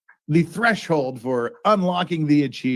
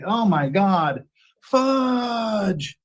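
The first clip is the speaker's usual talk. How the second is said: eating sour candy; 6 semitones higher, much slower than usual. Real, not acted. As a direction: mouth puckered from sour candy. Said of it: "my mouth is just full of salt".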